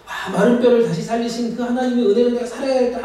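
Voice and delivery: high-pitched fired-up believer; mock inspired resolve. Acts out worshipper moved by sermon.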